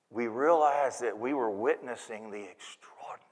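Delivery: low, soft storytelling with long pauses; hushed awe. Acted. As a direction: speak quietly, as if in wonder. Awed shepherds gaze at baby.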